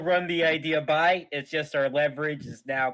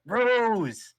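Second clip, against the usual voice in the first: accusing shout; 2 semitones higher, 6 dB louder than usual. Acted. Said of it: "I point at it".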